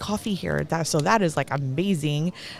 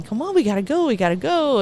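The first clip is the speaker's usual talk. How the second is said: higher, hurried imitation of being rushed; mock rushing; 5 semitones higher than usual. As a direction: hurry her along, lightly mocked. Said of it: "they're, like, rushing me".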